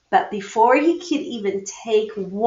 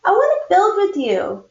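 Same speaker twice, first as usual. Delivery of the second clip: little sister; 9 semitones higher, 3 dB louder than usual. Acted. Little sister asks to play.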